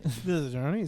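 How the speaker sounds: a little tipsy and giggly. Real, not acted. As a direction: talk with a light, tipsy giggle. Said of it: "I'm a little tipsy".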